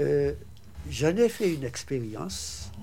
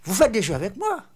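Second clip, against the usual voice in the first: higher, louder stern challenge; woman suspicious of a visitor, stern and loud; 7 semitones higher, 8 dB louder, faster than usual. Retold or imitated. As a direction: snap back at him, offended. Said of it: "d'un ton sévère".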